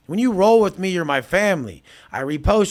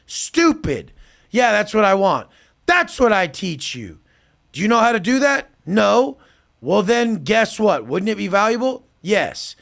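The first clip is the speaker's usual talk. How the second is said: scornful lecture; 4 semitones higher than usual. Retold or imitated. Exasperated lecture to client.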